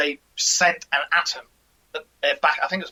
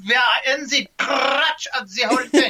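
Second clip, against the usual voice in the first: laughing; 8 semitones higher than usual. Real, not acted. Laughing at own joke.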